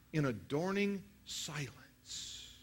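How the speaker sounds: pause, then ease it out slowly; dramatic pause. Shown as a demonstration. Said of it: "A dramatic pause like the one I just gave you".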